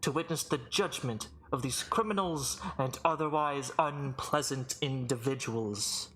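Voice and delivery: grand, projected master of ceremonies; formal herald with stretched key words; booming arena announcer. Acted. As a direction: proclaim it to the whole arena. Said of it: "booming voice echo throughout the arena".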